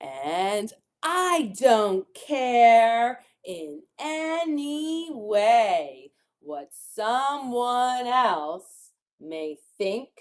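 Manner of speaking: slow, measured rhyming storybook read; reading to children. Acted. Teacher reads rhyming picture book to children, slowly. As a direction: lean on key words, pausing between phrases.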